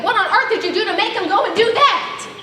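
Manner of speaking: high, laughing disbelief. Real, not acted. Sally laughing as Matt tells of the shotgun. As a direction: giggle through the question.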